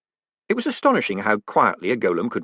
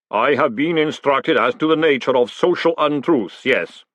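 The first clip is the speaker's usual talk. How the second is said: very slow, measured golem voice; golem, slowly; 4 semitones higher, 4 dB louder than usual. Acted. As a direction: speak slow and weighty like clay. Golem voice held.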